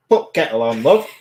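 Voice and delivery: mock Yorkshire household call; Yorkshire accent demo. Shown as a demonstration. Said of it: "you miss words out".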